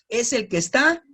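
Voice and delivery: lightly put-on comic voice; a hint of a goofy character; preacher catching his own silly voice; wiri wiri voice. Shown as a demonstration. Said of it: "Me oí como el wiri wiri".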